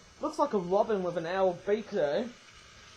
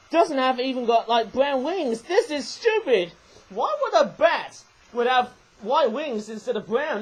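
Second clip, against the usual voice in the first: indignant, slightly raised voice; exasperated rant; 2 semitones higher, 4 dB louder than usual. Real, not acted. Toy reviewer faults the bat's white wings, exasperated. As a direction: complain in exasperation.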